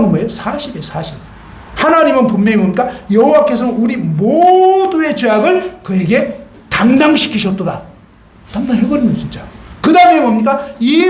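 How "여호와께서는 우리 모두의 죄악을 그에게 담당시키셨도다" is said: declaimed verse, raised a little; proclaimed scripture. Acted. Preacher proclaiming scripture to the congregation.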